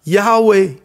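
slow proclaiming. Acted. Emphatic proclamation.

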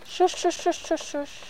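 soft repeated soothing shushes; librarian shushing whisper. Acted. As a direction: hush them gently, over and over. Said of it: "Why are you shushing me?".

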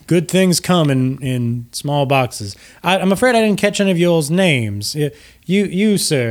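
genteel host gushing with gratitude; gracious Lucian Flametongue. Acted. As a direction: greet them with courtly, lilting flattery. Lucian asks for names.

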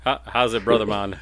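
hammy fake Jamaican accent; badly faked Jamaican island voice; terrible Jamaican accent. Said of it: "This is fucking awful".

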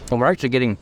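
talking with a mouth full of food; words around a mouthful. Real, not acted. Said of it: "I got a mouthful of food".

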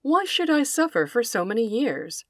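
a mild, mournful dog complaint; a hint of sorrow as the dog; understated sad barking plea. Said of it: "barked the dog in a sad voice".

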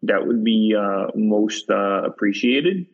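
mock Midwest pitchman voice; Minnesota accent. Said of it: "Was that a good accent?".

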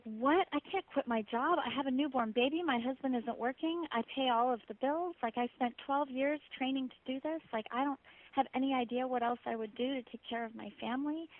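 alarmed protest. Retold or imitated. Protesting the inner voice.

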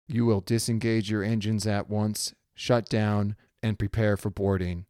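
a lightly voiced cold radio command; firm official order over comms. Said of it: "this cold, hard voice comes over the radio".

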